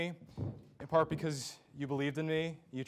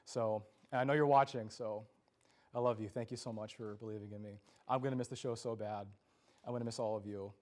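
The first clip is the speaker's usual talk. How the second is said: softer, choked-up thanks to mom; emotional farewell; 3 semitones lower, 4 dB quieter than usual. Real, not acted. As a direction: hold back tears while saying goodbye. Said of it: "forgive me if I'm a little emotional".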